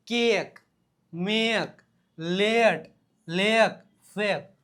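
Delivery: કેક, મેક, લેટ spaced out, each vowel held; long e sound. Shown as a demonstration. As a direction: model the ay in કેક through ફેક word by word. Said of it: "એનો ઉચ્ચાર શું આવશે?". (કેક થી ફેક સુધી એ લંબાવીને)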